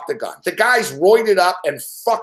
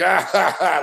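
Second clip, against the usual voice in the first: evil laugh. Retold or imitated. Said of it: "like an evil laugh".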